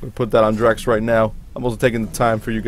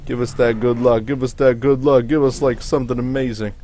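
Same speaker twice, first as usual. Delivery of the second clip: excited pleading; 3 semitones higher, 6 dB louder than usual. Real, not acted. Pleading for luck.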